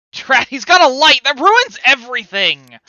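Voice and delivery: loud high hammy villain rant. Acted. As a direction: ham up a foiled villain. Voicing enemy curse bearer.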